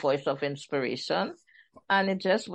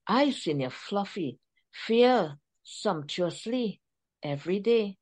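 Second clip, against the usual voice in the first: fake French accent. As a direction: read it in a hammed-up, badly faked French accent. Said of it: "my fake French accent".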